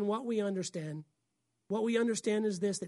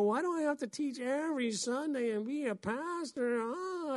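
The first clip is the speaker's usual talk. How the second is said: whiny complaint; 5 semitones higher than usual. Retold or imitated. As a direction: complain like a tired pastor. Pastor's mock complaint.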